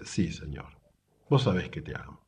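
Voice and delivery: low, hushed and tender; soft sincere answer. Retold or imitated. Peter telling Jesus he loves him, soft and sincere. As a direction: answer softly, pitched well down.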